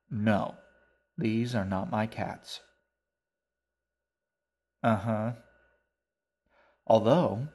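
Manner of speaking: shaggy man holding forth about his cats; shaggy old man. Acted. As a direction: declaim like a jolly, pompous old man.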